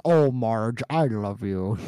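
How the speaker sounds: lightly done weird cartoon husband voice; a hint of an odd cartoon character; Homer Simpson. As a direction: imitate a weird-sounding cartoon husband, dropping in pitch. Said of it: "Homer sounds so weird. He's like".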